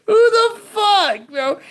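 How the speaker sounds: a real who-the-hell burst of disbelief; a streamer exploding at a story he can't believe; incredulous outburst. Real, not acted.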